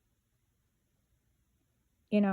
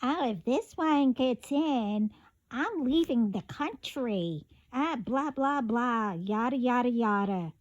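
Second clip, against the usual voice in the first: mocking complainer; 2 semitones higher than usual. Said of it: "I hear".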